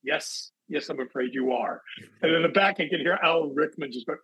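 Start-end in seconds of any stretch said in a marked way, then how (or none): 0.0-1.8 sweet reply. Retold or imitated. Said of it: "looked at me very sweetly and went".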